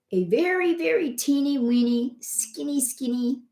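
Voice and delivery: high voice for tiny; high emphatic. Real, not acted. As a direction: squeak out how small it was. Describing tiny tube.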